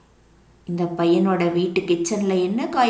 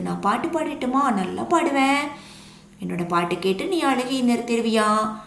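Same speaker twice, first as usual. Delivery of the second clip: high, eager offer to sing; eager coconut; 3 semitones higher than usual. Acted. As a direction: brag sweetly to cheer the boy up. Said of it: "அப்படின்னு பாட ஆரம்பிக்குது". (உயர்ந்த குரலில் ஆர்வமாக கேட்கும் தேங்காய்)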